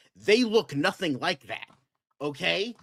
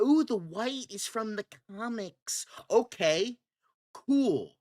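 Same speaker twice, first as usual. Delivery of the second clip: higher, airy voice of a smug fan; mock comic fan; 5 semitones higher than usual. Mocking a fan who defends the costume, sing-song. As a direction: parrot the fanboy's excuse with fake cheer. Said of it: "Like, I go".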